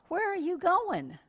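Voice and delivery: high, indignant demand; impatient. Retold or imitated. Customer indignant that the clerk walked off, high indignant demand. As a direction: let the outrage spike up high.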